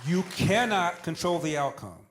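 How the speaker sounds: firm, slowed-down insistence; retold fatherly lecture. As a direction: drive the lesson home like a father.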